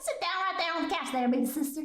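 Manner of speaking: mock hillbilly accent. Streamer bossing an imagined big sister, hillbilly accent. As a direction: put on a folksy hillbilly. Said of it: "confusing Western with hillbilly".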